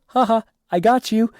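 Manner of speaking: high, loud imitation of a taunting cackle; mock gloating laugh. Chainsaw clown taunting the people she just scared, mock gloating laugh. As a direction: imitate a clown crowing over a successful scare. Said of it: "she just starts laughing".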